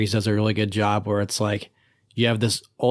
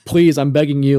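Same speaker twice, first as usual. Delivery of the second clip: frantic begging teacher; 3 semitones higher, 4 dB louder than usual. Retold or imitated. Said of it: "he's, like, frantic".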